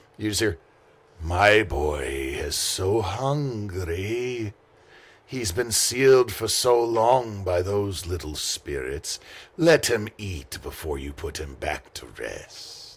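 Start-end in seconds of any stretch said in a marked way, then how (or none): 1.2-13.0 very slow, drawn-out, hungry, stretched stage whisper. Voicing a spirit that half-whispers to a player about its hungry boy: half-whispering voice. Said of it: "something starts whispering to you".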